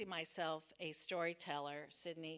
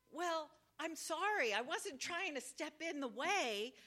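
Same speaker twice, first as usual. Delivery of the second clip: higher, anxious explaining; nervous apology; 4 semitones higher, 3 dB louder than usual. Retold or imitated. Apologizing to the angry girlfriend, nervous pleading. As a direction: talk fast to calm her down.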